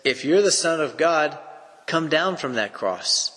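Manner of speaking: a hint of a taunting crowd; mild scoffing. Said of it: "they scoffed at him".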